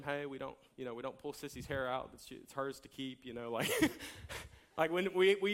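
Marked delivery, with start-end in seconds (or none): 0.0-3.2 gentle redirect. Retold or imitated. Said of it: "I gently will redirect him".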